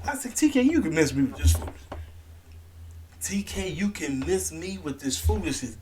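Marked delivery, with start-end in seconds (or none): 3.2-5.7 breathy whispered repeat; whispered scolding aside. Real, not acted. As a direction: hiss it at TK under your breath.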